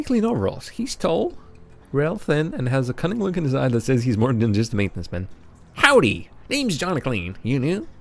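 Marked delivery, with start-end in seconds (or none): 5.7-7.9 put-on country accent. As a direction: greet like a folksy Southern janitor. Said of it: "Sorry to anyone who's offended by that accent".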